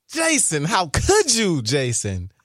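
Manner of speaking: mock betrayal.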